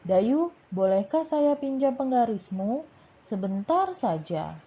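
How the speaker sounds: lively role-play reading, lifted pitch; role-play as Beni. Shown as a demonstration. Teacher acting Beni asking a classmate, lively voice. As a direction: read Beni's line with a bouncing tune. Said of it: "Ini kita coba seperti bermain peran".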